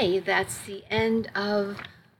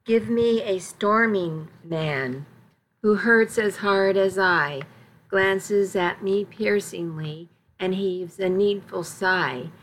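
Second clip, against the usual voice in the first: slow, dramatic poem recital; a lightly heightened recital of a passionate poem; poem reading. A narrator's reading. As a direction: savour each line of the love poem. Reads a romance poem.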